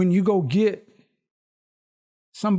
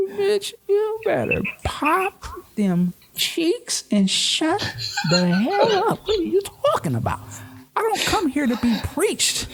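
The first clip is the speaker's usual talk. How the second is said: mock strip club customer; 11 semitones higher than usual. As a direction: play a fed-up club customer telling the stripper off.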